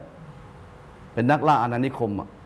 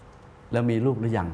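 slow kingly question; much slower than usual. Retold or imitated. King questioning the envoy.

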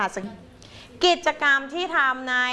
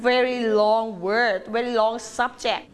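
drawn-out teacher model phrase; slow drawn-out demo; 2 semitones lower, much slower than usual. Shown as a demonstration. Teacher stretching a phrase slowly for pupils. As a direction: stretch every word out slowly.

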